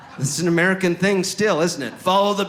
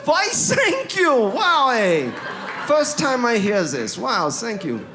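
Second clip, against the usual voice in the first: high, loud, gushing mock German accent; 8 semitones higher, 4 dB louder, slower than usual. Foreigner thanking someone for praising his English, mock German accent. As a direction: gush in a hammed-up German accent. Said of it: "I use my accent".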